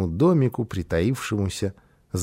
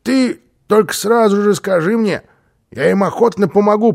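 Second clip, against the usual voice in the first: high, loud, eager character voice; volunteer keenly, pitched up; lively, insistent offer of help; 8 semitones higher, 6 dB louder than usual. A narrator's reading.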